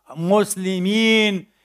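usual speaking voice

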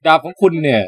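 imitating the smiling judge. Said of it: "เขาก็จะยิ้มเว้ย".

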